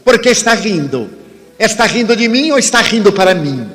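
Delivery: mildly challenging man in the check-in line; hostile stranger. Retold or imitated. Man in the queue confronting the smiling speaker, mild mock challenge. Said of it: "me desacatou a distância".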